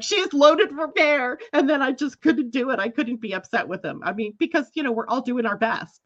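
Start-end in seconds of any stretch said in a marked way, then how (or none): 0.0-1.4 higher, slow, wary voice of the driver; imagined driver's thought. Retold or imitated. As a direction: voice the driver's nervous guess.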